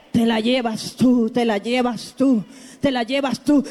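low but forceful repetition; insistent low pulpit chant; building preaching refrain. Real, not acted. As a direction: drive the praise home in a low voice. Builds on a repeated phrase.

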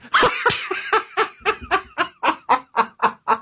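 high, real burst of laughter; high laughing fit. Real, not acted. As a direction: break into a helpless laugh. Cracks up at AI's joke.

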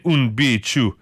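halting, unpractised Dutch; attempted Dutch accent. Shown as a demonstration. Trying what they say in Dutch, faltering Dutch accent. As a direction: stumble slowly through it in a rough Dutch accent. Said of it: "get better at these accents".

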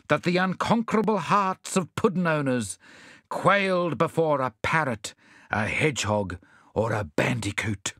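lofty declamation, starting high and stepping down; rally the faint-hearted grandly; stirring speech to comrades; fine oratory. A narrator's reading. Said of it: "exert his finest oratory".

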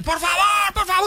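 high, frantic pleading like a man losing it; panicked begging. Retold or imitated. Neighbor stuck in the lift begging, high frantic panic. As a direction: beg in full panic, voice shooting up. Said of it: "como loco".

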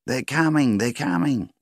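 high, loud cry of alarm; yelled warning. A narrator's reading. Woman yelling a warning to the fighters. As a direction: call out that they're coming. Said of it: "a woman had yelled".

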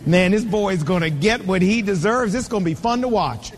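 a hint of smug glee under the breath; gloating aside. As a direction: savour the boy's coming comeuppance. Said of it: "I was sitting there going".

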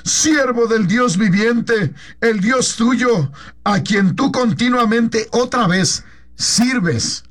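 a slow, sorrowful king calling down into the pit; sad call. Acted. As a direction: call Daniel mournfully and draw it out. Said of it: "con voz triste". (el rey llama a Daniel junto al foso, con voz triste y lenta)

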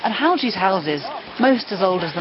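talking while out of breath. Real, not acted. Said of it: "makes me feel out of breath, as you can probably hear".

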